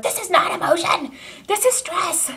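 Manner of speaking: high, insistent retort with not punched; This is not emotion, hitting not, then This is stress; exasperated correction, not stressed hard. Retold or imitated. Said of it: "last night I was like".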